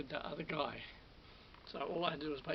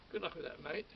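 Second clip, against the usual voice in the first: patronising. Retold or imitated. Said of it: "in a sort of patronising way".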